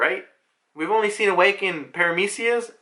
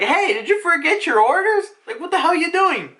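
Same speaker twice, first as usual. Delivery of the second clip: high, loud mock outrage; indignant scolding; 11 semitones higher, 4 dB louder than usual. Atlas turns on the disobedient pacifistas, indignant scolding. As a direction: tell them off in a raised cartoon voice.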